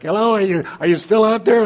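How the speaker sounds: loud, high call into the dark. Acted. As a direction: call out to someone unseen. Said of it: "calls out to, in the dark".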